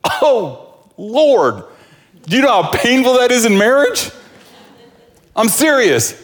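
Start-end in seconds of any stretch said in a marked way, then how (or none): 0.0-4.1 exasperated outcry. Real, not acted. Preacher exclaims about marriage pain.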